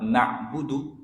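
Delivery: 'na'budu' ending on a short 'du'. Shown as a demonstration. Teacher showing the short letter, brief du. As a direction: cut the last vowel of 'na'budu' short. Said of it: "itu pendek".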